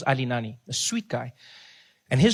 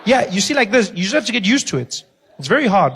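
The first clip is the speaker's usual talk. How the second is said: put-on Zambian accent; 5 semitones higher, 4 dB louder than usual. Imitating Ali's voice.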